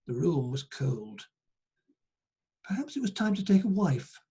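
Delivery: measured storyteller reading aloud; folk tale narration. Acted. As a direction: read the tale out to listeners.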